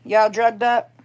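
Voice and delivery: high teasing coo at the cat on catnip; teasing pet talk. Real, not acted.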